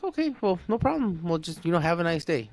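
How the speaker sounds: high-pitched, breezy dismissal; retold brush-off. Retold brush-off of an angry customer.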